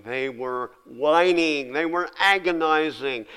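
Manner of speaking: a touch of a sulky whine; mock whining. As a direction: stretch the words out like a grumbling child. Preacher voicing the whining people.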